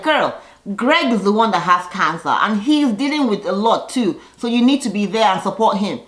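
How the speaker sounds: mock firm scolding. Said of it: "And Marlo is like".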